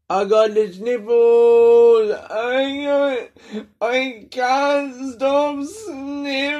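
high, very slow silly whine; silly squeaky voice. Acted. Podcaster goofing about his runny nose, squeaky high slow whine. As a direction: stretch it out in a goofy high whimper. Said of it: "that was funny".

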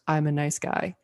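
imitating a Frenchman's accent, lightly; French accent. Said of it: "in his accent, he goes".

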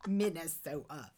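laughing parody of how "Minnesota" was said; "Minnesota" with a stretched Minnesota o; mock Minnesota accent. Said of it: "You do not say it that way".

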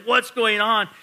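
baffled homeowner watching walls come down; What's going on? cried out, high and loud; bewildered outcry. Acted. Homeowner as Jesus tears down walls.

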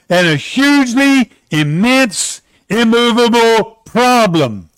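slow, deliberate verse reading; solemn scripture reading. Shown as a demonstration. Preacher reading the mountain verse to the congregation, slow and solemn. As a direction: read it slowly, every word weighted. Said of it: "Let me just read this verse".

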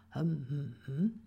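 short hums with lips shut; closed-mouth hum. Shown as a demonstration. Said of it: "What do you do when you say".

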